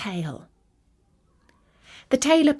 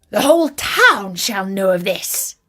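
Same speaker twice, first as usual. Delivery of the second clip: proud boast; 4 dB louder than usual. Acted. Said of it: "he said".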